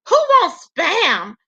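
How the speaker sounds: slow, drawn-out who wants Spam; mock horror at the food; imitating a friend's disgust; disgusted question. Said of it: "Demetra was like".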